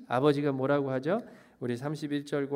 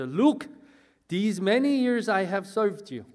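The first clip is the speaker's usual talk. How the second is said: acted indignant son, raised voice; rough, angry; 4 semitones higher, 4 dB louder, much slower than usual. Elder son confronts his father, rough and angry. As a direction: hit the opening word, then press on indignantly. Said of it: "라고 너무너무 거칠게".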